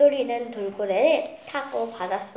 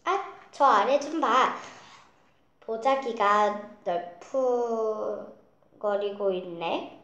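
높고 크게 느리게 외치며; 신나서 아래를 가리키며 외쳐; 소리치는 목소리; 2 semitones higher, 3 dB louder, slower than usual. Acted. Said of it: "똘똘이가 소리쳤어요". (높고 크게 외치는 아이)

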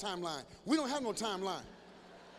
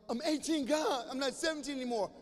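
put-on whiny teen; 4 semitones higher than usual. Teen whining at mother.

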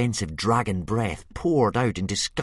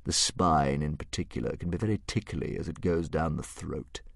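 thoughtful dragon; 2 semitones lower, 3 dB quieter than usual. Acted. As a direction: muse it like a gourmet monster. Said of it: "continued the dragon thoughtfully".

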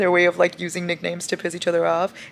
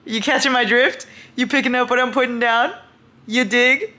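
sly insinuating tease; 6 semitones higher, 5 dB louder than usual. Real, not acted. Teasing viewers about a scene.

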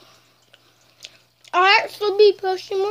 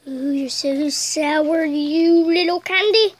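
cooing at candy; 3 semitones lower, slower than usual. Acted. Talking to the sour candy.

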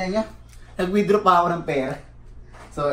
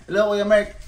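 higher, louder, sugar-coated hello; mock sweet greeting; 7 semitones higher, 5 dB louder than usual. Retelling how the angry caller turned sweet, sugary. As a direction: play the suddenly nice caller sucking up. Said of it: "Bigla siya naging ... bilang pagiging mabait".

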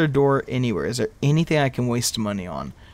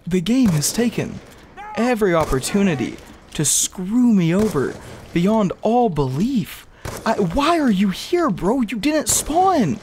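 higher, slow, drawn-out; bitter rant; 8 semitones higher, slower than usual. Real, not acted. Streamer berates the Panzer, high and slow. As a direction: accuse the game.

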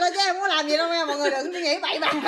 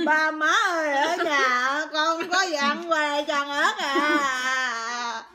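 laughing wail; much slower than usual. Real, not acted. Tearful mock wail after chili.

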